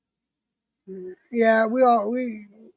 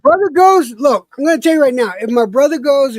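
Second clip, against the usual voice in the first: excited; 7 semitones higher, 7 dB louder than usual. Real, not acted. Hyped about drinking on cruise.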